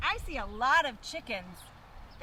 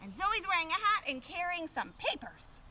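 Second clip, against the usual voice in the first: put-on reading to children; 3 semitones lower, slower than usual. A narrator's reading. Reading picture book to children.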